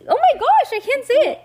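high, loud squeal of frustration; exasperated outburst. Real, not acted. Reader trips over a word in the story, exasperated outburst. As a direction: burst out, exasperated at your own tongue.

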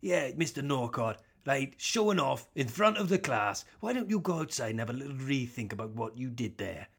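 lightly played teacher scolding a show-off pupil; mock teacher. Teacher in the joke scolds pupil Norcott, mild mock stern. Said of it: "someone teaching geography at year eleven".

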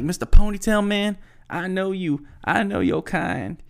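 high-pitched mock rant; venting. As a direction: imitate an indignant man confronting someone. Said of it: "he's just venting".

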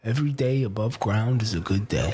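badly faked Italian accent for a mob boss. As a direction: put on a rough Italian accent. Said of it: "you're doing an Italian accent".

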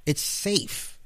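soft mock whisper. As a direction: hush "It's safe" like a secret. Repeats phrase in whisper.

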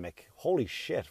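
ordinary talk, nothing marked

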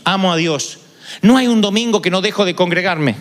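eager and pleased with himself, asking to be praised; rich young man. Retold or imitated. The preacher voicing the rich young man asking Jesus, lightly mock eager.

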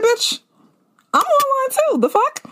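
high, incredulous snap at her; what-the-hell attitude; sassy disbelief. Retold or imitated. Retold glare at line-cutter.

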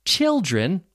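put-on "Children" with a short I, as in "chill". Shown as a demonstration. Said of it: "has a short I sound".

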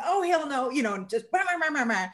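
high, hammed-up blah-blah rant; mock ranting. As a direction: babble back high and mocking. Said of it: "I just kinda did this".

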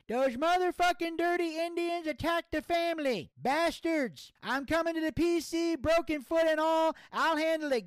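very high, strained put-on voice in mock outrage; Gator. Friend raging by text over the family attack, high hammed-up outrage. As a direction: rant at the top of your range, stretching the final cries. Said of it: "Gator was texting me as well".

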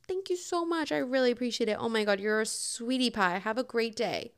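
kill them with kindness; sweet thank you. Retold or imitated. Thanking a hater sweetly. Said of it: "you just need to flip that".

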